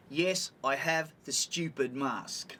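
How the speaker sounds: slow, deliberate sarcastic retort. Retold or imitated. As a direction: draw it out with pointed sarcasm.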